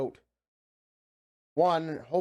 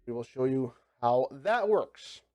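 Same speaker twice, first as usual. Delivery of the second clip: groggy, gravelly morning voice; groggy, just woke up. Real, not acted. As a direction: still waking up, groggy and rough. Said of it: "if I sound kinda groggy and I'm still kinda gravelly and waking up".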